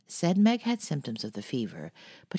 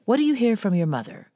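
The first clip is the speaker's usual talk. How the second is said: put-on louder, higher old aunt, gruff; gruff old lady; 8 semitones higher, 7 dB louder, faster than usual. A narrator's reading. Old aunt gruffly questioning Jo about her mother. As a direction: bark it like a cross old aunt. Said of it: "asked the old lady gruffly".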